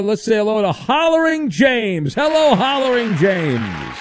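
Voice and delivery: drawn-out showman greeting; big radio introduction, trailing long on the name; announcer-style caller intro. Real, not acted. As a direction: stretch out the caller's name in welcome. Host reintroducing caller on air.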